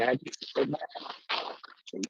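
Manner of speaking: sleepy slow dog voice; voicing the dog.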